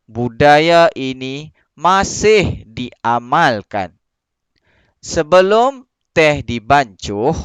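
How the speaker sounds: slow, careful reading of a passage to pupils; teacher reading a story text for pupils to copy; model reading aloud. Acted. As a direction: read it slowly and clearly, as a model for the class. Teacher reads text aloud to class.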